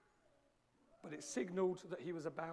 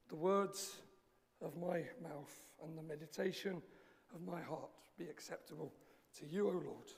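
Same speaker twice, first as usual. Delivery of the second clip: prayer. Acted. Opening prayer.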